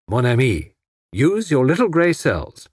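lightly voiced French detective; a hint of Poirot, slow and knowing. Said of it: "The Sherlock Holmes touch".

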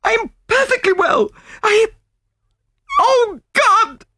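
very high protest breaking into horror; frantic widow. Acted. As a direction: protest shrilly high, then cry out in terror. Widow protests, then sees horror.

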